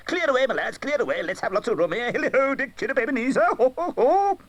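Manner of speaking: high, hearty calling voice; a fat jolly master hailing his apprentices; jovial Fezziwig. A narrator's reading. Fezziwig calling his apprentices, jovial and hearty.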